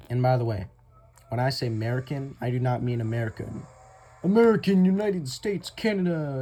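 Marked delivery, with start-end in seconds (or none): 4.2-6.4 loud, high mock announcement; mock proclamation. Telling viewers what American does not mean, loud mock proclamation. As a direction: call it out big and high.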